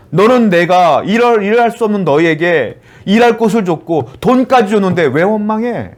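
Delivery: acted, insistent reproach; reproachful rebuke. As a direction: challenge the complainer as a wronged benefactor. God rebuking complainers, voiced by preacher.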